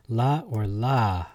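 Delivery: drawn-out "la", the second with a breathed H ending; emphasis on the H. Shown as a demonstration. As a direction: slowly contrast "la" with "la" ending in H. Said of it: "with emphasis on the H".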